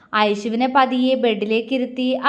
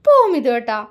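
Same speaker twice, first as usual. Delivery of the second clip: louder laughing protest; 5 dB louder than usual. Acted. Aishu laughingly swats Mithu, a mild laughing protest. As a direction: playfully push him away with a laugh. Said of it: "അവൾ ചിരിയോടെ".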